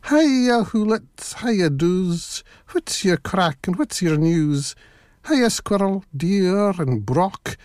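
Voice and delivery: put-on high, bright calls of a little girl; little girl calling. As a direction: call out cheerfully like a young girl. Girl calls out to forest animals.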